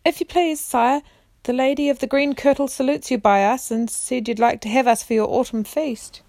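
put-on a boy calling up nervously to the giant king; shouting up. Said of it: "shouted up to the King Giant".

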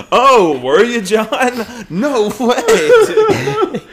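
imitating a nerd fawning over John; mocking nerd.

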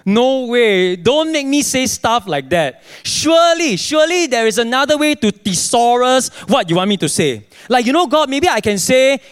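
exasperated mock protest to God; bargaining with God in comic disbelief; acted disbelief. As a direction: plead in disbelief, pitch jumping up. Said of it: "some of you are in disbelief".

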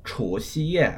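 Chu Xi Ye: rising, level high, falling; Chu Xi Ye tones. Shown as a demonstration. Host reviewing the term: careful tones. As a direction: say Chu Xi Ye with each tone clear. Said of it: "second ... first ... fourth tone".

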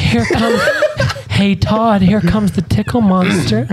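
high, slow playful monster; tickle monster voice. Pretend. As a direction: draw it out like a spooky game.

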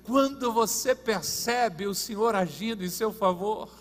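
emphatic, projected preacher; preaching. Real, not acted. Preacher on God speaking through trials and miracles, emphatic preaching. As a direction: press each point on the congregation.

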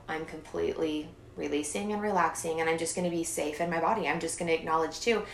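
soft, soothing affirmation; calm self-talk. Shown as a demonstration. Talking herself down from anxiety, soothing. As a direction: ease into calm.

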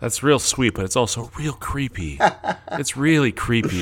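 high, loud, laughing through the words. Real, not acted. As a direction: tease while cracking up. Teasing friend about creepy kid.

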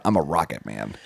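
low, soft rocket man croon. Pretend. Host boasting about his sports drink, low and soft. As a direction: drop low like a cool spaceman.

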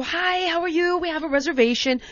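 mock sweet, polite greeting; sweet and patient. American guest greeting restaurant host, sweet and patient. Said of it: "sweet and patient and calm".

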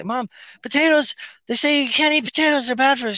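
put-on high naive kid voice; imitating child self. Child warns Irish mom about potatoes, high voice. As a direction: play the gullible little kid.

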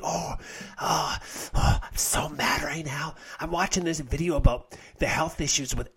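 mocking a whiny commenter. Imitating a triggered viewer ranting about air fryers, whiny and soft. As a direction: play a sulking viewer stewing in faux distress.

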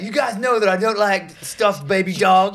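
high, loud mock panic; retold yell. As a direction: yell it like a frightened frat bro. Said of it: "he just yells out".

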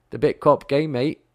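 a light, half-hearted Australian accent sliding toward British; mock Aussie, barely committed; terrible Australian accent. Shown as a demonstration. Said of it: "This is my terrible Australian accent".

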